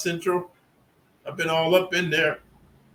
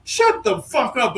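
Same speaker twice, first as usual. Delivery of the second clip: higher, louder, slowed angry retort; retold angry snap; 7 semitones higher, 4 dB louder, slower than usual. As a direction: bite it out at him. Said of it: "I said".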